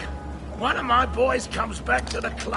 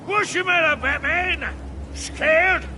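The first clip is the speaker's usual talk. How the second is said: gloating taunt; 2 semitones higher than usual. Acted. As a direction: needle him with glee. Taunting Batman.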